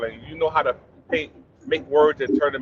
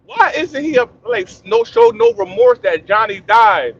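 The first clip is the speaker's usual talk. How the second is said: puzzled supervisor; 7 semitones higher, 7 dB louder than usual. Retold or imitated. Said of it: "scratching his head like".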